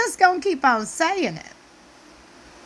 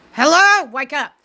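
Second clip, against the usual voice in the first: mock wake-up call; 2 semitones higher, 4 dB louder than usual. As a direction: jolt him awake. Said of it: "I'm like".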